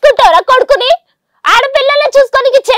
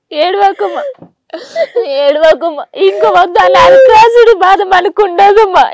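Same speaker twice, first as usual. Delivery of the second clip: tearful comforting; 2 semitones lower than usual. Real, not acted. Daughter comforting her crying mother, tearful soothing. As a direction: soothe her mother through own tears.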